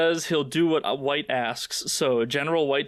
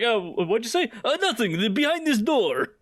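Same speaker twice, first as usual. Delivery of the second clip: mock innocent; 7 semitones higher than usual. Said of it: "And they're like".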